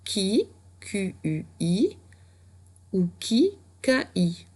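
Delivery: qui, Q U I, épelé lentement; épeler pour l'élève. Shown as a demonstration. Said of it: "tu pouvais écrire". (épeler lentement en dictée)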